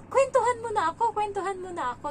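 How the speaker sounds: high, eager mimicked kid; imitated child begging. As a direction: mimic a child pestering for a story. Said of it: "sabi niya".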